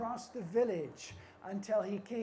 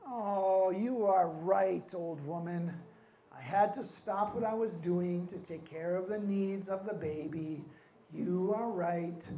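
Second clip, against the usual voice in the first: humbled chief; 2 semitones lower than usual. Acted. Chief humbly admits she's right.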